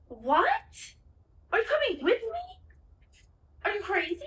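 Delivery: loud, very high mock disbelief; incredulous, high-pitched outburst; incredulous echo. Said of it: "I was like".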